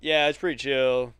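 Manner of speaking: loud military-brother impression, slow at first then easing; Alex. Showing a friend how his military brother talks, loud and assertive. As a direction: imitate a soldier's loud, assertive small talk. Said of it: "Just talk loud?".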